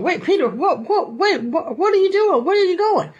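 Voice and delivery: high, laughing disbelief; baffled friends calling after him; startled disciples. Retold or imitated. Disciples shouting at Peter.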